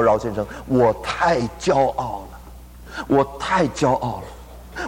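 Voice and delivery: a doctor admitting his pride, mildly tearful; retold weeping confession. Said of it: "那一天他哭了".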